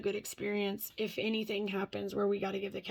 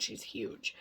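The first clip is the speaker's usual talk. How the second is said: whisper; 7 dB quieter than usual. Real, not acted. Marvelling at the cat's size.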